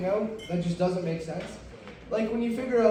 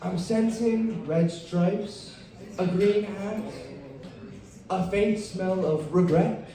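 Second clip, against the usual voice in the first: mystic psychic; slower than usual. Retold or imitated. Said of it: "some dude that goes".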